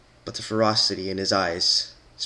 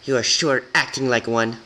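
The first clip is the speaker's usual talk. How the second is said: sneer; 3 semitones higher, 3 dB louder than usual. Acted.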